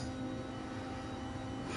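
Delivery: long breathy yawn; a big tired yawn. Real, not acted. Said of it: "sorry for yawning so much".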